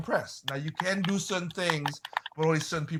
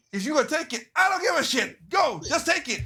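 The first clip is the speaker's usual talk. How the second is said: careless giveaway; 10 semitones higher than usual. Retold or imitated. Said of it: "So the guy said".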